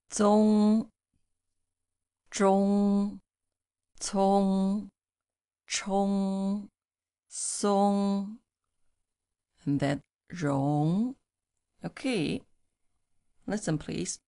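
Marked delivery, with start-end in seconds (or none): 0.1-11.2 zong zhong cong chong song rong, each clearly said; Mandarin syllable drill. Shown as a demonstration. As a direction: model each syllable for the class. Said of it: "One more time, please".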